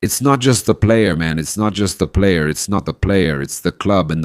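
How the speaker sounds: loud, urgent, insisting they look; indignant repeated look at that; outraged. Real, not acted. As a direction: point at the footage in outrage. Angry insistence.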